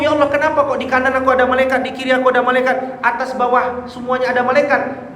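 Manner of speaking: high, quick run of puzzled questioning; bewildered. Retold or imitated. Believer asking God about angels all around, acted bewilderment. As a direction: voice a baffled soul in a rising-pitched rush. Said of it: "Dia bingung".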